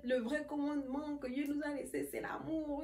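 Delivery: a hint of a sermon voice; mock preaching. Imitating the big sister preaching the gospel, lightly. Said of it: "commence à prêcher l'évangile".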